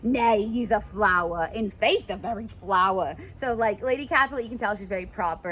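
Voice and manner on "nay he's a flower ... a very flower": much higher, louder, thrilled nurse voice; gushing nurse. Acted. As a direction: swoon over the suitor. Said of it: "the nurse is like".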